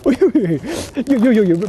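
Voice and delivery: slow, laughing wait wait wait; laughing disbelief. Real, not acted. Streamer laughing at his pull, slow and amused.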